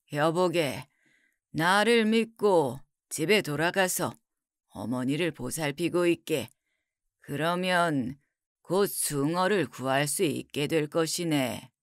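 low, soft, dignified counsel; reassuring scholar. Acted. Scholar reassures the weeping son.

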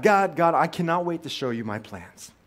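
loud, excited calling out to God, voice climbing; like a kid bursting to show off his plans; eager believer showing God his life plans; eager pleading to God. Retold or imitated. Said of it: "we would tell God".

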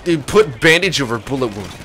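a teacher explaining to medical students, mock-dumb; mock dumb instructor. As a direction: lecture like a simple-minded drill instructor. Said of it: "the teacher goes".

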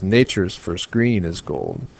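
slow "nature's first green is gold", leaning on NA; measured verse line, first syllable of "nature's" stressed. Shown as a demonstration. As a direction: scan "nature's first green is gold" starting on a strong beat. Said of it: "nat is where the stress is".

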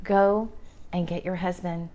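soft, low, gentle command; a quiet, kind but firm "Go and get your husband"; gentle confrontation. A narrator's reading. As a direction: say it softly, like a loving nudge. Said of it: "here comes the gentle confrontation".

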